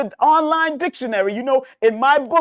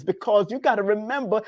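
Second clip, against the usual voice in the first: usual speaking voice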